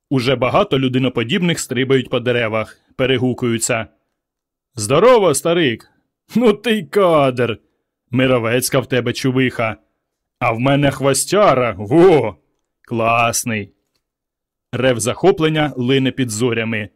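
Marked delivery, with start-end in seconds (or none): 4.7-13.7 excited yelling. Acted. Apemen greet each other, excited shouts. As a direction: call out to your mates in wild delight. Excited monkey-men calling out.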